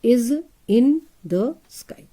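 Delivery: teacher modelling slowly; very slow, syllable by syllable. Shown as a demonstration. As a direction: stretch every word for the children. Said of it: "I in".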